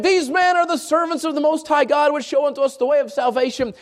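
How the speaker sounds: calling out the words insistently; crying out. Retold or imitated. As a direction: cry it out like a possessed girl following them. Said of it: "she's crying out".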